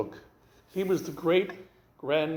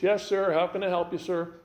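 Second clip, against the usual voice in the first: lost-and-found clerk; 3 semitones higher than usual. Retold or imitated. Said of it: "they're like this".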